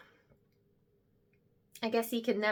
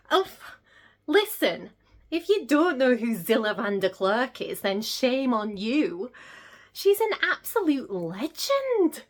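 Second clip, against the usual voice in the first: passionate; 3 semitones higher, 5 dB louder than usual. Acted. Heated defence of her hero.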